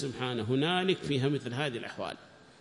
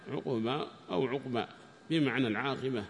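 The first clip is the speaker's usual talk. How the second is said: ordinary talk, nothing marked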